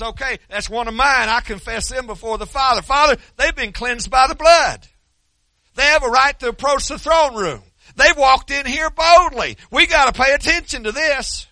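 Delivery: high, loud, lofty heavenly voice; Jesus voice. Retold or imitated. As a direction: play Jesus announcing to the Father, lifted high. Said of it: "So he don't talk like that".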